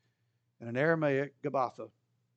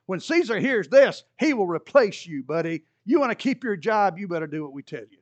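mildly raised, pressing threats; threatening leaders. Retold or imitated. Jewish leaders pressure Pilate, a touch of heated threat. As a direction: lean on Pilate like a pushy mob. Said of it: "Jewish leaders cried out".

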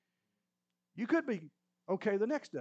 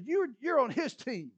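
angry accusation; 6 semitones higher, 5 dB louder than usual. Acted. Saul angrily accusing Jonathan.

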